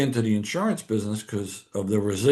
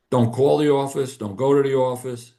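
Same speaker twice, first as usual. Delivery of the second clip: louder, higher retold commands; retold firing orders; 4 semitones higher, 5 dB louder than usual. Boss firing him over breakfast, loud retold orders.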